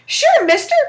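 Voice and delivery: high loud pleading squeak; pleading little devil. Acted. Stuck little devil begging Jack, high and pleading. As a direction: beg like a scared little imp.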